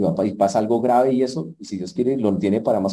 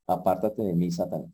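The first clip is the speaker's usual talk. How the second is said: Jesus rebuking Satan; 6 semitones lower, 6 dB quieter than usual. Acted. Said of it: "Jesús se da cuenta donde le dice".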